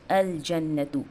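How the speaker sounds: slow "अल जन्नतु" with every syllable apart; deliberate model reading of "अल जन्नतु", clear l; clear lam. Shown as a demonstration. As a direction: sound the l fully in "अल जन्नतु". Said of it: "लाम का sound clear है".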